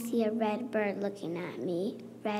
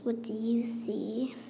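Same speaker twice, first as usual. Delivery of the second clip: whispered question. Acted. Child reading picture book, whispering the refrain. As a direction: hush the refrain.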